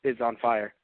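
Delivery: hoarse from talking for hours; sore throat. Real, not acted. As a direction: speak with a raw, sore throat. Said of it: "My, my throat is, is on fire".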